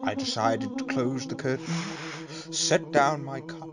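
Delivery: lightly posh storyteller voice. Acted. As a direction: read it in a hint of posh. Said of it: "the posh voice".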